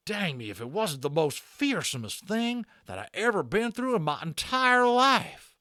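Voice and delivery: high, loud rough cowboy voice; a shaken frontiersman letting it out; Boone the cowboy. A narrator's reading. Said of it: "Boone the cowboy talking".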